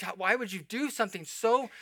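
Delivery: mild outrage, pleading for an explanation; disbelieving, mildly outraged question. Acted. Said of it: "you feel outraged".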